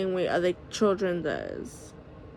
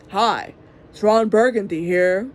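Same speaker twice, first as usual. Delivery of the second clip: louder second try at the anchorman line; Ron Burgundy retry; 4 dB louder than usual. Retold or imitated. Mom retrying her Ron Burgundy line, louder anchor voice. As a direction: punch it out a bit louder, still the anchor. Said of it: "He didn't talk like that".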